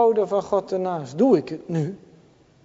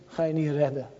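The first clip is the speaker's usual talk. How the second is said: ordinary talk, nothing marked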